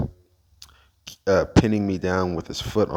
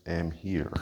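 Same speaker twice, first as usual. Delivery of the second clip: whispering; 7 dB quieter, much slower than usual. Real, not acted. Quiet opening to camera.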